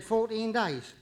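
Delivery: judge handing down a sentence; magistrate's plain ruling; matter-of-fact sentencing. Acted. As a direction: pronounce the sentence firmly, without fuss. Judge passes sentence in joke.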